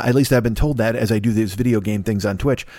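ordinary talk, nothing marked

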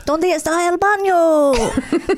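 put-on scratchy little boy. Imitating the Duolingo boy character, scratchy child voice. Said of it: "like, scratchy voice way".

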